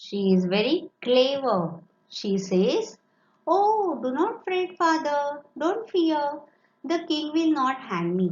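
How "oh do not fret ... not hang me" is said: high, bright-voiced girl, sure of herself; confident young daughter. A narrator's reading. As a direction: reassure him cheerfully, pitched up high. Clever daughter comforting her father.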